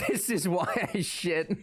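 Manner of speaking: slow, stretched words broken by laughter; can't hold the line together for laughing; laughing through it. Real, not acted.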